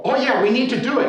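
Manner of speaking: loud, high hearty agreement; hammed-up encouragement; mock enthusiasm. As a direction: imitate neighbours eagerly cheering from the sidelines. Imitates falsely keen neighbours cheering him on.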